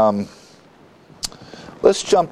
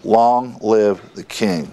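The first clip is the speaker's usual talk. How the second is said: slow, measured proclamation at usual volume; restrained acclamation; slower than usual. Retold or imitated. The people acclaim their king, slow understated imitated shout. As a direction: draw out the mock cheer, word by word. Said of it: "all the people shouted and said".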